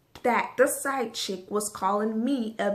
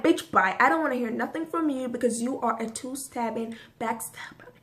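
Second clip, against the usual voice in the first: dismissive brush-off. Retold or imitated. Dismissing the cousin.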